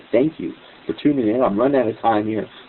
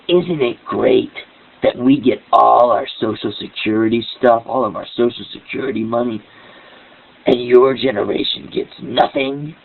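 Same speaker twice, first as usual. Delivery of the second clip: evil vicious tone. Retold or imitated. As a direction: imitate her sneering gloat, lightly. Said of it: "with this evil, vicious tone".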